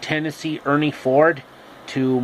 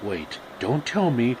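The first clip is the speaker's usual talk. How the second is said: low character voice; 6 semitones lower, 7 dB quieter than usual. Acted.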